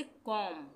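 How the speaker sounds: कॉम drawn out, ending on M; silent B. Shown as a demonstration. Teacher showing learners the silent B, कॉम closed on M. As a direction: say कॉम with no b at the end. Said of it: "बी का उच्चारण नहीं होगा".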